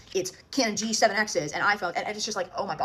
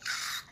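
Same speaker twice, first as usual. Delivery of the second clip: imitated fan scream; 7 dB quieter than usual. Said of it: "the twelve, thirteen-year-olds are like".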